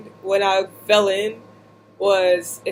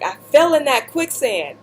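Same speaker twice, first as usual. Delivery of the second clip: tearful; 6 semitones higher than usual. Retold or imitated. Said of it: "I was like".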